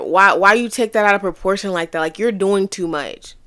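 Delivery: mock scold for overreacting; dismissive tone. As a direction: brush off her reaction with irritation. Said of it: "First, notice tone".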